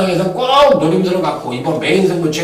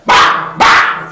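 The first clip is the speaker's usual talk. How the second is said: punchy bang noises; 4 dB louder, much slower than usual. Retold or imitated. Imitating a sudden hit.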